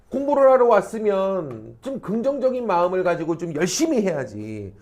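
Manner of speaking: mildly acted mother's scolding; nagging mother. Mother to a child who hates studying, mock nagging. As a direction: imitate a mother getting on at her child. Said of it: "막 이러면서 막 애를 막 다그쳐".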